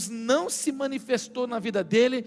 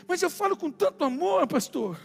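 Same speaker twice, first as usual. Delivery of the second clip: imitating a husband insisting he speaks lovingly; higher-pitched, self-justifying husband impression; mock loving protest; 4 semitones higher than usual. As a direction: protest innocence as the clueless husband. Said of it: "quando ele falava com tanto amor".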